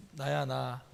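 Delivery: soft, slow, hushed voice; low-key and calming, well below full voice; quiet reassurance, retold. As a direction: voice Jesus gently shushing the disciples. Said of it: "이렇게 얘기했어요".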